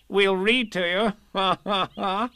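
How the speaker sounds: chirpy laughing offer; bright and chuckling, ha ha ha; cheerfully. Acted. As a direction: Rabbit cheerfully offering to read to Pooh. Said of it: "said Rabbit cheerfully".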